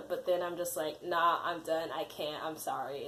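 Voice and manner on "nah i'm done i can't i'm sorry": sinking lower and softer; retold defeat. Candidate declining to continue the interview, defeated and fading. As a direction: act out giving up, voice dropping away.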